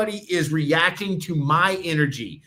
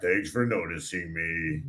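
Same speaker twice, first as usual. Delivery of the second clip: much lower, soft, slow mock voice of the girl; girl quoting shyly; 10 semitones lower, 7 dB quieter, slower than usual. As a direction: play her small and timid, drawn out. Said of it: "she was sitting there like".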